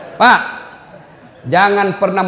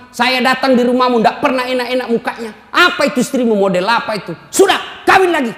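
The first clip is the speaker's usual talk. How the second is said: scolding mother-in-law. Retold or imitated. Mother-in-law scolding her son.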